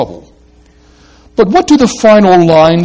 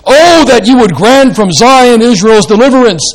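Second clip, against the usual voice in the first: "Oh" lifted high, louder, longing; ardent prayer wish; 7 semitones higher, 8 dB louder than usual. Shown as a demonstration. Preacher rendering the verse as an ardent prayer, raised voice. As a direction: pray the line as a yearning wish. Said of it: "make it a kind of ardent prayer wish".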